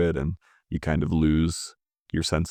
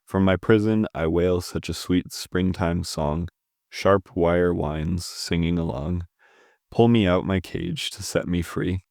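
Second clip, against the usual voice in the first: measured poetry recital with pauses between lines; poem reading. Real, not acted. Reviewer reads a submitted poem to viewers, measured recital. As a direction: read it as verse, line by line.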